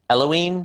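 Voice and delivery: "Eloine" as EL-oh-een, no final vowel; "Eloine" closing in "een", not "nay"; personal pronunciation. Shown as a demonstration. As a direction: say "Eloine" ending on a plain n sound. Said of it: "I've always pronounced it".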